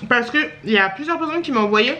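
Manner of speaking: parler la bouche pleine. Real, not acted. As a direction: mots mâchés autour d'une bouchée. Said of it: "Je parle la bouche pleine". (bouche pleine de gratin)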